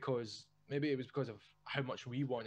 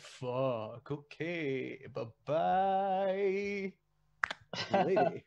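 higher, louder hasty goodbye; mock fleeing goodbye; 5 semitones higher, 5 dB louder, much slower than usual. Podcast host acting someone fleeing, louder higher goodbye. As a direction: back away quickly in mock panic. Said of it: "And you're like".

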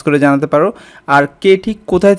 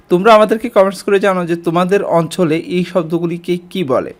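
ordinary talk, nothing marked

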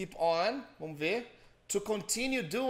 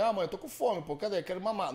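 pretend baby; 3 semitones higher than usual. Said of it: "Você não conseguia falar com a sua mãe".

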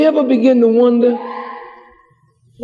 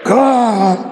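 desperate bargaining prayer; 2 semitones higher than usual. Retold or imitated. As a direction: swear to God you'll change, begging. Sinner bargains with God desperately.

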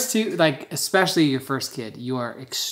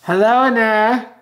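high, louder, slow hello to the bump; 7 semitones higher, 7 dB louder than usual. Real, not acted. Father greets the baby in the belly, high and slow.

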